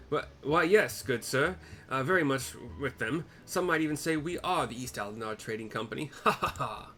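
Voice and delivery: flustered bluffing gentleman. Acted. Caught out posing as traders, nervous and loud. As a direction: stammer then laugh it off. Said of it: "flustered lie about trading company".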